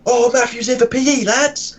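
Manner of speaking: teacher mocking a pupil who never turns up to P E; sarcastic teacher. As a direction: announce him like a celebrity to make fun of him. Teacher mocks the rare attendee.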